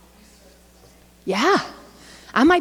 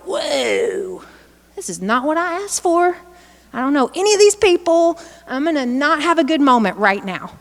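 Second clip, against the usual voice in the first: put-on higher, worried little kid about to lose it; overwhelmed child; 3 semitones higher than usual. Presenter voicing a child on the first school day, anxious. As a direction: play the scared kindergartner, pitched up.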